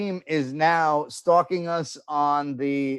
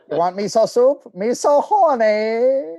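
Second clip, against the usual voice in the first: mock Asian accent; 6 semitones higher, 4 dB louder, slower than usual. Mock accent riff continues.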